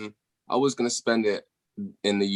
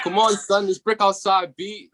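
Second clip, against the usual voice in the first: mock New York accent, pitched much higher; 11 semitones higher than usual. British guest imitating how New Yorkers talk, in a high mock New York accent. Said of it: "that's how the niggas talk over there".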